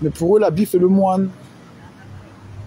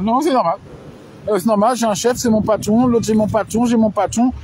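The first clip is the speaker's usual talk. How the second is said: mocking voice; 3 semitones higher than usual. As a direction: parody people who accept their boss. Mimics people content with a boss. (voix moqueuse)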